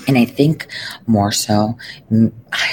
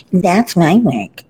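mock claimant voice; 6 semitones higher, 4 dB louder, slower than usual. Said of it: "And then I get like".

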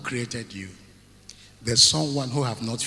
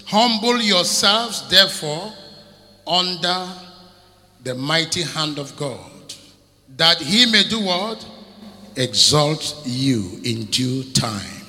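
preached scripture; 3 dB louder than usual. Acted. Preacher declaiming First Peter to the church. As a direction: read the verse as a call to the congregation.

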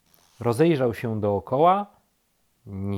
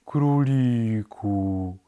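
very slow, drawn-out animal voice; much slower than usual. A narrator's reading. The slow animal greets the rabbit, very slowly. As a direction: stretch each syllable right out. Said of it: "powiedziało zwierzę bardzo wolno".

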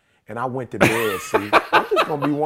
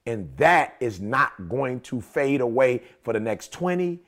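wife's firm approval; 4 semitones lower, slower than usual. Retold or imitated. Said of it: "she was like".

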